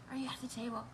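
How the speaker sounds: softly whispered question, almost no voice. Shown as a demonstration. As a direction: lean in and whisper it to the viewers. Repeats the question to the audience.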